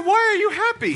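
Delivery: lightly acted bewildered husband; mock husband's question. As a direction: pitch the husband's question up high in disbelief. Husband voiced in told story.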